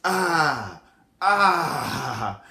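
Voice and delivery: drawn-out stalling "ahhh"; mock hesitation groan, held long; caught-out "ah". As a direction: stretch out an awkward "ah". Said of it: "that's when that comes out".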